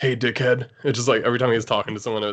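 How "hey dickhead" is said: put-on cartoon villain voice. Describing a friend's Vegeta impression by acting out how he talks, Vegeta impression. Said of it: "the way he talks is just like he's like".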